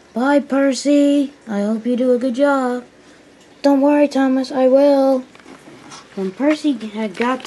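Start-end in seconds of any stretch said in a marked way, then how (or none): 0.1-2.8 voiced story engine seeing off a friend; friendly goodbye. Story figure bids Percy goodbye. 3.6-5.2 high, loud engine voice; eager story-character promise; confident reply. Acted. Story engine reassures his friend.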